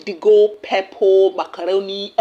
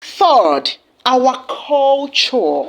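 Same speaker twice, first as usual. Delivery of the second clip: slow emphasis; 2 semitones higher, much slower than usual. Real, not acted. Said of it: "announces third point slowly".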